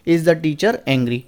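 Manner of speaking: slow, careful word by word; slow reading. Shown as a demonstration. Teacher reading out the right answer, slowly. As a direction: set each word apart for the class. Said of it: "teacher reads correct answer".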